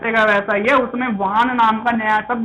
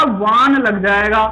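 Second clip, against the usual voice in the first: slow emphasis; slower than usual. Shown as a demonstration. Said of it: "मतूप की जगह पे क्या आएगा".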